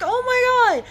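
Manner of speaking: high, loud exasperated cry; exasperated oh my God. Retold or imitated. Driver stuck with her window, exasperated and loud. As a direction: throw up your hands at the window.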